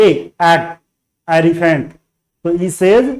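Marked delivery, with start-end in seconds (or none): 0.0-0.3 letter-sound "ए", not "ee"; E read as "ए". Shown as a demonstration. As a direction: say "ए" as a long "ay" vowel. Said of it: "ई को ए पढ़ेंगे".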